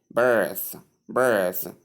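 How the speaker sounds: birth with a long central vowel; long vowel sound. Shown as a demonstration. Teacher giving birth as example, long vowel drawn out. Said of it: "long S sound there sounds".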